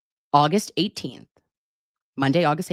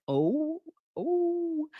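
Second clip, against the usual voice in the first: flustered oh; 11 semitones higher, 6 dB quieter than usual. Retold or imitated. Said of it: "I was like".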